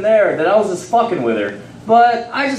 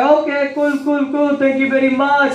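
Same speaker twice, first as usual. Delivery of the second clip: higher-pitched put-on Indian accent; 6 semitones higher than usual. Store owner thanking a customer, in an Indian accent. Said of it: "I try to use my accent".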